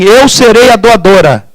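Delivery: normal talking voice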